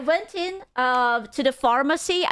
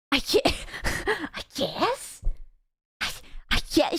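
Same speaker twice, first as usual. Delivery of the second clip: stunned quiet; 4 semitones higher, 5 dB quieter than usual. Retold or imitated. Retelling own stunned reply.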